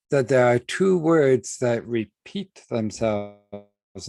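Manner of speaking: slow, with two weighted; stress on two. Shown as a demonstration. Teacher stresses two to the class, slowly. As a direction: dwell on two as the key point. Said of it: "I want to emphasize for us".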